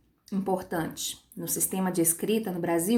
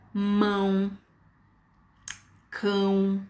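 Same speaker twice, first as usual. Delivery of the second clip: single words held long, with pauses between; each word as one drawn-out, isolated beat; one-syllable examples; much slower than usual. Shown as a demonstration. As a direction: say each word alone, slowly and evenly. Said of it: "Uma sílaba só".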